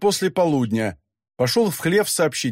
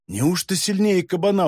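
surprised; 4 semitones higher than usual. Acted. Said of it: "удивился Матвей".

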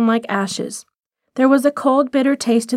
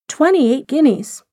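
slow, stunned repeat of the price; shocked echo; 4 semitones higher than usual. Acted. Rosemary silently aghast at the shop's price, slow disbelief. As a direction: let the sum sink in with a jolt.

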